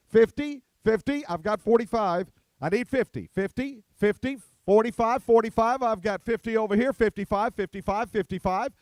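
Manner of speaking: rapid auction bid calling; auctioneer. Acted. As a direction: chant the bids like an auctioneer.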